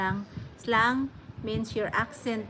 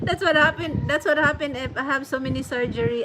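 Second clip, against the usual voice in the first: higher voice coming out of laughter; amused excuse; 4 semitones higher, 4 dB louder, faster than usual. Real, not acted. Excusing own forgetfulness to Cassie, laughing. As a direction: laugh it off as you explain.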